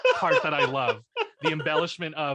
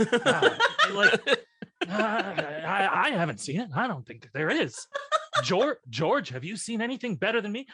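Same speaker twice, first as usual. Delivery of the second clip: higher halting aged Shatner; older Bill Shatner; 5 semitones higher, 3 dB louder than usual. Shown as a demonstration. Doing older Bill Shatner for the friends, halting and grand. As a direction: drag out the halting pauses like an old Shatner. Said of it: "I do older Bill Shatner".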